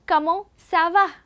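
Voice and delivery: Comment ça va with French vowels. Shown as a demonstration. Teacher introduces Comment ça va, French sounds. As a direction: model Comment ça va. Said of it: "Repeat it again with me".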